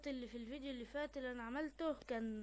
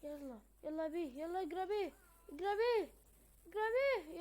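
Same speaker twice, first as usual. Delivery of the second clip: building from calm to higher, louder urging; urgent urging; 4 semitones higher, 4 dB louder than usual. Real, not acted. Gamer urging her character to run, building shout. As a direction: push harder each time, rising to a shout.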